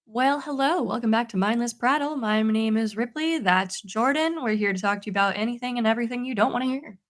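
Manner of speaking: podcast intro announcer voice; announcing voice. Acted. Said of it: "you have a different voice just for the intro and outro".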